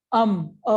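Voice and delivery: अम, then just अ as a short "uh"; teacher isolates अम, अ, each separately; isolating the sound. Shown as a demonstration. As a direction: cut अम down to its bare vowel अ. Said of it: "ये किसकी sound आ रही है".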